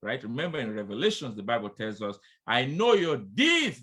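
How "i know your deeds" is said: voice of the Lord. Acted. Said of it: "declared the Lord".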